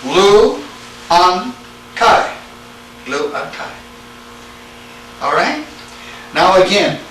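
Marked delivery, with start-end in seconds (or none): 0.0-2.4 LU, AN, KAI as three separate beats; syllable by syllable. Shown as a demonstration. Teacher showing students the plural form, syllable by syllable. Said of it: "See that?". 3.1-3.7 "Lu an kai" run together, much softer; soft repeat. Shown as a demonstration. Teacher repeating the plural form to students, softly run together. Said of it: "See that?".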